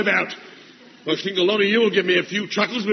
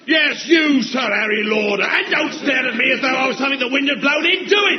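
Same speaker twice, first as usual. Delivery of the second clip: sergeant shouting. Acted. Sergeant bawling at a recruit.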